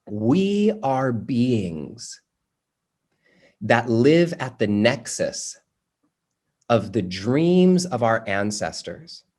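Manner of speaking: slow, deliberate, pausing between phrases; slow quote reading. Real, not acted. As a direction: lay each phrase down slowly for them to write. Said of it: "She says".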